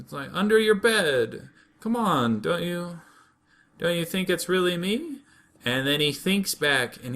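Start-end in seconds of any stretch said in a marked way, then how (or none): 0.3-5.2 pleading cousin. Acted. Voices cousin pleading identity.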